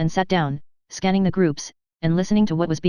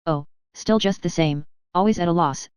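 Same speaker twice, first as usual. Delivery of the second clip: resigned smile. Acted. Landowner admits to Levin his land still loses, resigned and smiling. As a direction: shrug it off with a smile. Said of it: "with a resigned smile".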